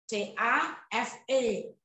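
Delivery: slow letter by letter "C A F E"; teacher spelling a word for the class. Shown as a demonstration. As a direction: spell "C A F E" out slowly, one letter at a time.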